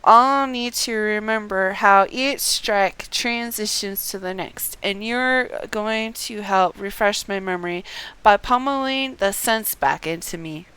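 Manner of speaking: a hint of a resolved warrior, unhurried; reading as Haman. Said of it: "Haman continues".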